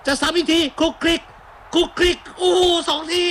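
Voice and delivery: high, fast-rising commentary on a goalmouth scramble; excited play-by-play. Real, not acted. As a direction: call the double clearance off the line at full pitch.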